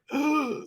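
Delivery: short high-pitched gasp; mock gasp. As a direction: imitate dried-out eyes with a gasp. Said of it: "my eyes were like".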